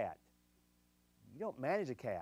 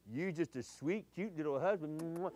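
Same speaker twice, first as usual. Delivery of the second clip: cooing; 5 dB quieter than usual. Acted. Cooing about husband.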